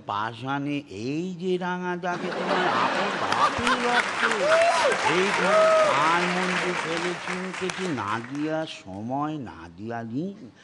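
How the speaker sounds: Anil Chatterjee impression. A hint of Anil Chatterjee's tuneful delivery for the panel. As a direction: croon the lines in a gentle tune. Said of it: "Anil Chatterjee হলে সুরে বলতেন".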